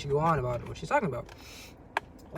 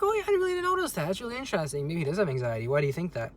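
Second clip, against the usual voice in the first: surprised interest; 2 semitones higher, faster than usual. Pretend. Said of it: "Be like".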